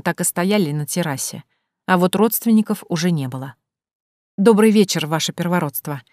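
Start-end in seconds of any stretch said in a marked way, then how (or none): none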